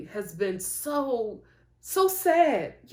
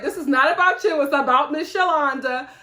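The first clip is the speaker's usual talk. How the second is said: loud, raised-pitch scolding; exasperated retort; 5 semitones higher, 7 dB louder than usual. Retold or imitated. Daughter correcting her crying mom, mock exasperated. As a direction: cut in loudly and set her straight.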